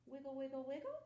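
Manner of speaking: put-on sing-song fun with the kids; bouncy playful wiggle. Shown as a demonstration. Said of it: "Can you wiggle your fingers".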